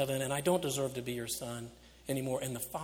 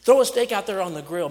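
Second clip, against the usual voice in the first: "Throw" hit loud in a corrected, much louder call; joyful shout; 4 semitones higher, 11 dB louder, faster than usual. Acted. Father shouting to his servants to throw a steak on, loud. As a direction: boom it out, higher and much louder. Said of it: "I'm all tangled up".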